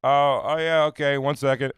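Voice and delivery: high, loud, caught-out stammer; flustered reply. Retold or imitated. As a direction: sound caught off guard and stalling. His flustered reply through door.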